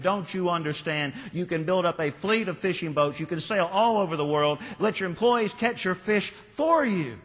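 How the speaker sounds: angry businessman. Acted. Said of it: "the businessman now was angry".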